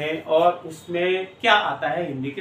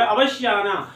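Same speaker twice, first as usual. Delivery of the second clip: अवश्य pushed hard and falling; stress on अवश्य; 2 semitones higher, slower than usual. Shown as a demonstration. Inviting someone, teacher shows emphasis: stressed अवश्य. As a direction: insist on अवश्य. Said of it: "देखो जोर दे के बोले".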